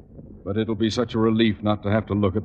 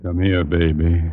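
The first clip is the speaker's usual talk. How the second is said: playful; 4 semitones lower than usual. Acted. Husband playfully reaches for wife.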